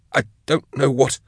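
high, broken gasps between words; winded and panicky, pitched high; gasping. A narrator's reading. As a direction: gasp it out after retching. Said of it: "he gasped".

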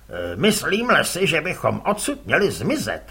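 a lightly voiced old fisherman, uneasy; fisherman's voice. Kuboš to his son, uneasy fisherman.

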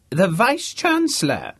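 put-on high, loud booming old academic; pompous old Vice-Chancellor. The speaker impersonating a Vice-Chancellor to Harvey, booming. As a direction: play the grand deaf old don, full volume.

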